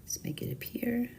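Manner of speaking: whisper. Real, not acted.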